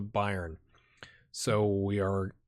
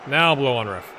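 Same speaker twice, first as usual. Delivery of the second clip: yelling from the sidelines; 7 dB louder than usual. Real, not acted. Begging the referee to whistle.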